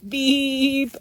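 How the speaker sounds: high, bright horn beep; laughing beep. Acted. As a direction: honk it playfully like a truck. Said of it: "laughed Blue".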